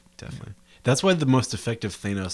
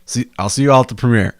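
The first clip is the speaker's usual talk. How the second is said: mock announcement; 8 dB louder than usual. Mimicking the director's later turnaround.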